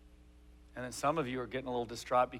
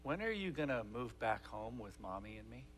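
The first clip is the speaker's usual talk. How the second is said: put-on little girl asking; 8 dB quieter than usual. Little girl asking dad in story.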